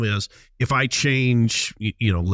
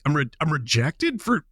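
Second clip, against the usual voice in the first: incredulous question, pitched up; higher, rising "you can't be serious" tone; retold disbelief; 5 semitones higher than usual. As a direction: replay your baffled reaction to being turned down. Retells disbelief at being rejected.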